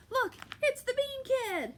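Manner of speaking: high, loud mocking bully yell; bully shouting. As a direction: jeer at him from the crowd. Bully spots Jack.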